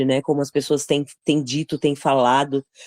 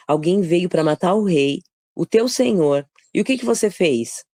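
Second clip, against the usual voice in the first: higher-pitched accusing questioning; acted rebuke; 4 semitones higher than usual. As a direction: call a negligent guard to account. David rebukes Abner, acted.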